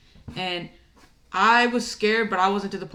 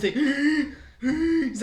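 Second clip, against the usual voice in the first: high mock wheeze; exaggerated out-of-breath wheeze; wheezing; 7 semitones higher, much slower than usual. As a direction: imitate a winded friend gasping. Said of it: "like, wheezing and shit".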